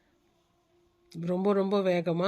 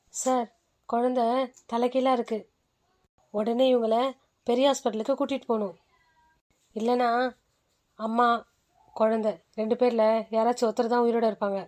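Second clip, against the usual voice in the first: calm doctor; 3 semitones higher than usual. Acted. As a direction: soothe the frightened patient. Doctor warns husband.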